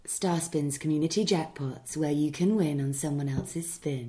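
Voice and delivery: slow, smooth voiceover ad read. Shown as a demonstration. For the hosts, a slow voiceover ad read. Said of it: "Do it one more time".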